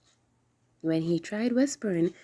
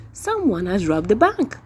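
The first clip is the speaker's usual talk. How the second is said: shouting; 8 dB louder than usual. Acted. Crowd shouting.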